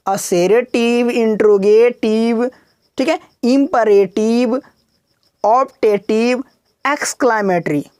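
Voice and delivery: slow, tender recital, each word drawn out; lovingly. Shown as a demonstration. Teacher demonstrating a slow, loving recital for students. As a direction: lull the terms out slowly and fondly. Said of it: "बोलो प्यार से बोलो".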